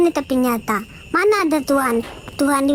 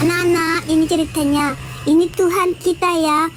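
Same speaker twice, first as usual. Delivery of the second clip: put-on mother to children; 3 semitones higher than usual. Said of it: "anak-anak kan".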